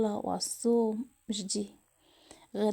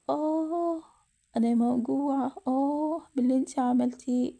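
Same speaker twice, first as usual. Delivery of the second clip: acted moan of heartache, higher on each "آه"; higher, aching lament; pained mother; 3 semitones higher than usual. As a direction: let the hurt cry out. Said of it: "لكن في وسط وجعها".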